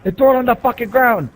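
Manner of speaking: high, loud furious screamed order; screaming drill instructor. Retold or imitated. Drill instructor screaming at the recruit over the cotton ball, furious high yell. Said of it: "screaming at me".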